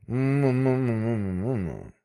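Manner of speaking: hum. Acted. The manager hums.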